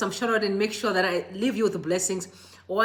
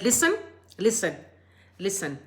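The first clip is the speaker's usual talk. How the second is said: calming, fading. Real, not acted. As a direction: settle him down word by word. Calming a distressed viewer.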